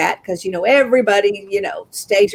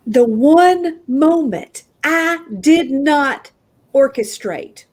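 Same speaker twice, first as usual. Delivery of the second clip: dramatic; 4 semitones higher, slower than usual. Real, not acted. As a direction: weigh every phrase for dramatic effect. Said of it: "I'm being dramatic".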